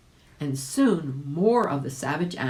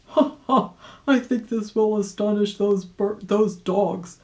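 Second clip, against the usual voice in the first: put-on louder, higher chuckling old rabbit; gleeful rabbit; 6 semitones higher, 5 dB louder than usual. A narrator's reading. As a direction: laugh at the tricked dogs. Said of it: "thought Uncle Wiggily".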